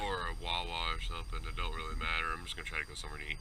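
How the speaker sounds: drowsy morning voice, yawning; sleepy and yawning. Real, not acted. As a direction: talk through a yawn, still half asleep. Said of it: "You can tell I'm, like, yawning".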